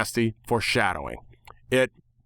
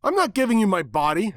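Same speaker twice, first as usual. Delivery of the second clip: shocked refusal; 10 semitones higher, 3 dB louder than usual. Acted. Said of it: "my eyes wide with shock".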